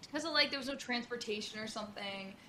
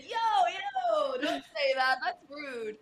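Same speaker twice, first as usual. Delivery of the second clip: higher, louder playful scold; 5 semitones higher, 4 dB louder, much slower than usual. Retold or imitated. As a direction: tell her off lightly. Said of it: "and I said".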